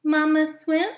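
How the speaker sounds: high, eager little gosling question; pleading gosling. Acted. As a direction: ask hopefully like a baby goose. Gosling asks mother.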